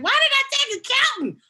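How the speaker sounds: high, loud mock wail of regret; exasperated outburst. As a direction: cry it out in comic exasperation. Retelling own regret over major.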